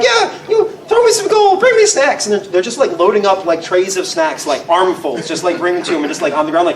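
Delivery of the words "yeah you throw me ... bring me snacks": high, loud goblin demands; demanding goblin. Acted. Goblin with a bomb demanding gold, high and loud. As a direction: bark orders in a squeaky goblin voice.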